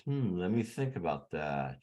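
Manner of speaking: thoughtful Obama pause. Retold or imitated. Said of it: "He says".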